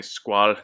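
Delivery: Squall as one syllable, "skwahl"; French pronunciation. Shown as a demonstration. Reviewer choosing the family's French way, Squall in one syllable. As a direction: say Squall the French way, no final vowel. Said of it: "I'll say it the French way".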